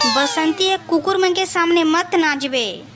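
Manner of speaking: high, drawn-out Chhattisgarhi line reading; Chhattisgarhi rendering. Acted. Villager auditioning for the director, high slow Chhattisgarhi delivery. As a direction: recite the film line slowly in rustic Chhattisgarhi. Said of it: "Hindi में उस dialogue को".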